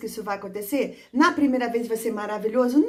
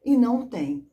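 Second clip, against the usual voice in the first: whisper. Shown as a demonstration. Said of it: "aside to teachers".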